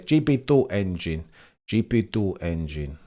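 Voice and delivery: lightly put-on Spanish accent; mock Spanish accent. Streamer impersonating a driver's radio gripe, mock Spanish accent. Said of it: "Accents apparently gonna become a thing".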